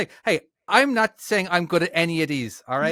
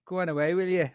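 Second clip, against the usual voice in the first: trial phrase in a Dublin accent; 4 dB quieter than usual. Shown as a demonstration. Host warming up for a voice request, Dublin accent. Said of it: "what's the Dublin accent sound like".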